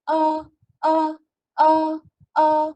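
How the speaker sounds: Ah clipped short, still high and level; quick level Ah repeated; short first tone. Shown as a demonstration. Teacher showing shortened tone one, high and flat. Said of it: "so bunyi dia still sama".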